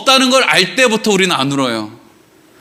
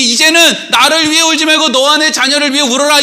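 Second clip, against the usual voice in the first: Jesus; 7 semitones higher than usual. Acted. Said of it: "여기서 예수님이".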